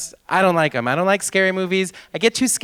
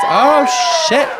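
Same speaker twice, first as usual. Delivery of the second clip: surprised oh; 11 semitones higher, 9 dB louder than usual. Real, not acted. Surprised by horror fans.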